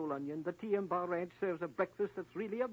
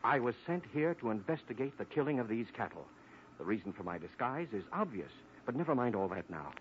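changed voice; 8 semitones lower than usual. Acted. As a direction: drop the act and speak as the real lawman. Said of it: "you've changed your voice".

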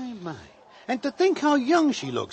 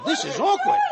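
embarrassed laugh. Acted. Watching the girl dance, embarrassed.

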